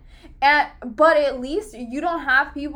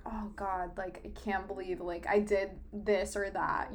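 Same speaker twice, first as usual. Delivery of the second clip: cringing to self; 5 semitones lower, 8 dB quieter than usual. Retold or imitated. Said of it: "I'm like".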